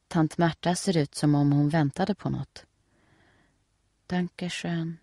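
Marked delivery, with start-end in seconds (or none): 4.1-5.0 whisper. A narrator's reading. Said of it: "viskar Steffi med stela läppar".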